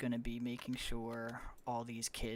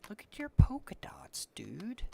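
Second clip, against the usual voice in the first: loud whisper; 5 semitones higher, 11 dB louder than usual. Real, not acted. Cooing at a baby horse.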